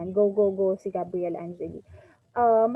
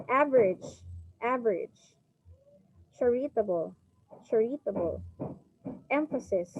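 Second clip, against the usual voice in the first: average, charitable, emphasis, each hit on the first syllable; word-list demo, AV in average and CHAR in charitable punched; front-stress average, charitable, emphasis, falling after; 3 dB quieter than usual. Shown as a demonstration. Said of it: "words that are stressed on their first syllable".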